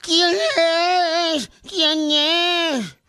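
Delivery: a woman calling into the dark, scared; scared lady yelling. Acted. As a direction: joke teller doing the frightened wife. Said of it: "grita la señora".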